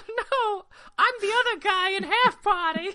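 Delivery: very high squeaky voice; squeaky other guy. Acted. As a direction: pipe it up high and tiny.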